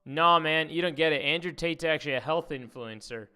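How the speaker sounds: hammed-up Tate fan insisting; mock fanboy. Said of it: "commented out were like".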